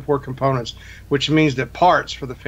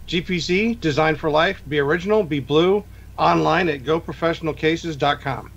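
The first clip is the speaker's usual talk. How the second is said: ad read; 2 semitones higher than usual. Acted. Reads sponsor ad.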